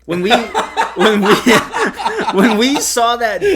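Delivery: high squeaky laughter, words slowed; can't get it out for laughing; laughing fit. Real, not acted.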